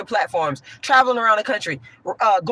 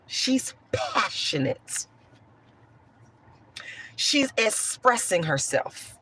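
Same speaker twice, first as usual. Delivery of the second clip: mock indulgent praise; 6 dB quieter, slower than usual. Mimics indulgent praise for light-skinned women.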